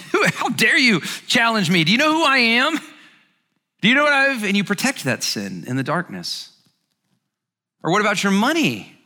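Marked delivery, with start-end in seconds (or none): 0.1-4.4 higher and louder, mock outraged; hammed-up how-dare-you outrage; indignant defiance. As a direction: play the arrogant big shot caught out. Voicing prideful sinner's defiance.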